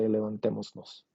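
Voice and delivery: "levantémonos" run together as levantemosnos, S still in; mouthful with S kept. Shown as a demonstration. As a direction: say "levantémonos" in one go with the awkward S before nos. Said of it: "it's just a mouthful to say".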